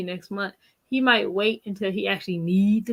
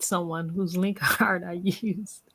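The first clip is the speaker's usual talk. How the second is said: laughing whisper; 3 semitones lower, 4 dB quieter, much slower than usual. Real, not acted. Laughing unvoiced aside.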